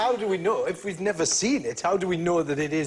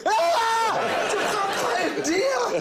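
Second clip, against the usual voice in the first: mock scream; 14 semitones higher, slower than usual. Acting fright at vampire deer.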